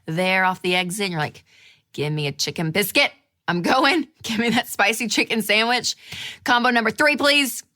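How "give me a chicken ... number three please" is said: forceful, angry drive-through order; mock-furious, building higher and louder; acted anger. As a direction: order food as if still fuming. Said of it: "And the anger comes".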